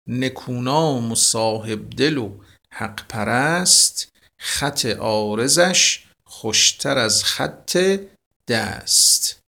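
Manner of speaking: slow, measured verse reading; teacher reciting Hafez; poem recitation. Acted. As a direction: recite it like classical poetry.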